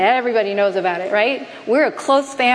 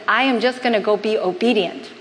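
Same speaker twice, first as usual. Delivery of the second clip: calmly. Shown as a demonstration. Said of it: "I didn't say it calmly like this".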